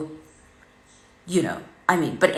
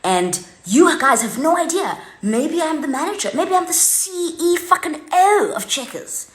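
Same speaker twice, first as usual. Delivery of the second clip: retold rant; 2 semitones higher than usual. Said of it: "I said to them".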